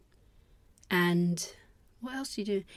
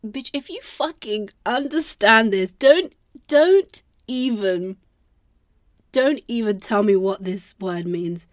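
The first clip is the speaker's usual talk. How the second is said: mock exasperated rant; 2 semitones higher, 7 dB louder than usual. Scolding herself over forgotten exam French, mock exasperated. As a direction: tell yourself off, loudly and incredulously. Acted telling-off of her own brain.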